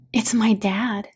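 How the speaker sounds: whispered, breathy realization; hushed surprise. Acted. Daughter suddenly sensing her dad has come forward, hushed.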